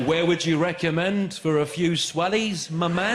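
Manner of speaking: a slow, hammed-up try at Scottish slang; bad Scottish attempt. English tourist asking the taxi driver, mock Scottish slang. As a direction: lay the borrowed slang on thick. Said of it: "Ask him where's good".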